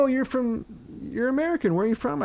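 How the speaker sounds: high, softly imitated curious local; Birmingham local. Birmingham local greeting an American visitor, high curious imitation. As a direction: lift the voice high for an interested stranger. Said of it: "I'd get up to Birmingham".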